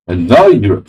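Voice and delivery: badly faked German accent; attempted German accent. Streamer failing at a chess program's line, faked German accent. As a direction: try a German accent, swooping up on NOW. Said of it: "I can't do German accents".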